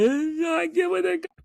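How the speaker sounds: drawn-out, very high mock voice; high, stretched-out retold outburst; high-pitched mimicry. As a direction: squeal it out slowly, imitating. Mimics an emotional scene's line.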